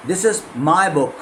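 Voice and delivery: slow, with is weighted; stress on is. Shown as a demonstration. Teacher drilling stress on is. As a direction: lean on is, slowly. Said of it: "इस तरह से आपको करना पड़ता है".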